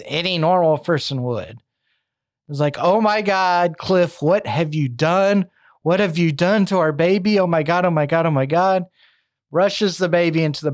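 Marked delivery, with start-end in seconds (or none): 2.8-8.8 mildly panicked retold outcry, a little raised; panicked mother. Wife to husband over their bloodied baby, mildly panicked. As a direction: act out a horrified mother, held back.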